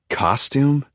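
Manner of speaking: high-pitched disbelieving question; incredulous echo. A narrator's reading. Daughter repeating her father's question, high and incredulous. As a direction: throw it back at him in disbelief.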